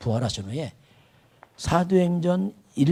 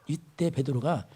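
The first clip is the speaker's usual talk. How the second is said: slowed emphasis; 3 dB quieter, slower than usual. Shown as a demonstration. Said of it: "slowed emphasis, repeated phrase".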